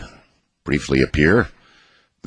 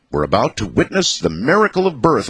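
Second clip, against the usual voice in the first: higher, mock-wondrous proclamation; grand announcement; 6 semitones higher than usual. A narrator's reading. Dad presenting the lizard birth to the kids, grand announcement. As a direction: herald it to the children, pitched up. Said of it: "I announced".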